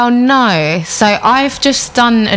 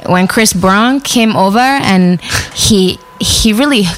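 a hint of a singer's Barbadian-American accent; light Barbadian lilt mixed with American; impression of the singer; slower than usual. Shown as a demonstration. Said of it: "I'll do a really good Riri".

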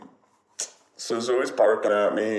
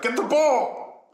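high, drawn-out doggy demand; high-pitched insistent pet; 3 dB louder, slower than usual. Acted. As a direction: voice a bossy dog, pitched way up. Voicing the demanding dog.

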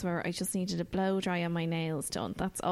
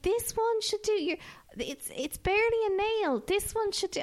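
imitating nail technician; 14 semitones higher than usual. Nail lady quoted again.

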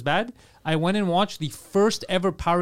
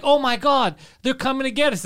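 high, loud panicked cry; imitating actors panicking; panicked mock alarm; 7 semitones higher, 4 dB louder than usual. Mocking the cast's panic, loud and high-pitched. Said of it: "Like this".

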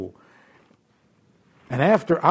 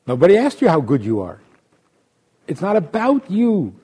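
fast firm rebuke; voice of God scolding; 3 semitones higher, 4 dB louder than usual. Acted. God scolding the boastful devotee, firm. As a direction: brush off the boast.

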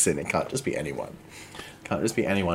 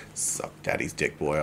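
mock seductive growl; 4 semitones lower, 4 dB quieter than usual. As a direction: breathe it like a seducer. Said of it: "if he was just like".

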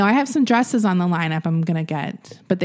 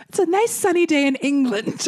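lightly acted, higher-pitched Englishman; mock contentment, a little higher; imagined sunbather; 5 semitones higher than usual. Co-host imagines the man in his garden, lightly mocking. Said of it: "I like how he's like".

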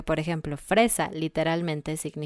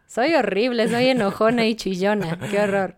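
mock dismay, louder; mock self-pity; 3 semitones higher, 5 dB louder than usual. Host jokes about her own flaws, mock dismay. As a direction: ham up the horror at herself, laughing. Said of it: "yo soy chillona".

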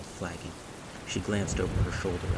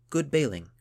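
higher, louder call of praise; 8 semitones higher, 6 dB louder than usual. A narrator's reading. Gunhild to Wilfrith after the storm, praising. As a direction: offer it as a lifted compliment.

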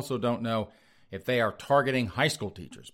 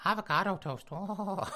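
much higher, moaning mock ecstasy; swooning millennial; 9 semitones higher, 3 dB quieter, slower than usual. Mocking millennials swooning over avocado toast, high moaning. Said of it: "millennials masturbating to avocado toast".

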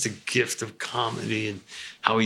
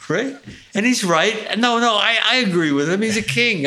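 excited; 12 semitones higher, 6 dB louder than usual. Real, not acted. Laughing admiration of Rickles.

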